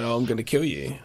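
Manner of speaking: flat, unmoved mock threat; deadpan. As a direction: say it with no emotion at all. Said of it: "really deadpan".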